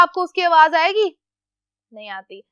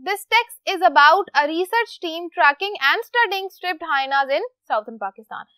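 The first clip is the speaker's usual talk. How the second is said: slow reading; much slower than usual. Shown as a demonstration. Teacher reads instructions slowly.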